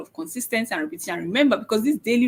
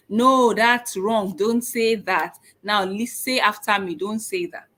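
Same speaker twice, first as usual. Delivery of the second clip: mock scolding parent. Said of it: "So you don't say".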